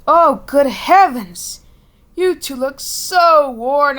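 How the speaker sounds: loud, slow worried exclamation; shocked at how tired they look; concerned surprise. Acted. Character sees exhausted eaglets.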